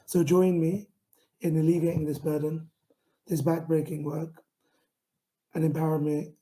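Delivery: earnest, driven pitch read; pitch delivery. Shown as a demonstration. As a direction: sell the project with conviction, building to the call.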